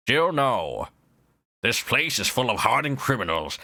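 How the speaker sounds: a hint of cool villain, slightly low; lightly voiced Wesker line; mild Wesker voice. Governor greets visitors, lightly as Wesker. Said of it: "Resident Evil one Wesker".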